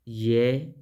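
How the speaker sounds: "Ye" as one isolated syllable; clean pronunciation demo. Shown as a demonstration. Teacher showing the most faithful pronunciation, sounded out. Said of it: "más limpia sería así".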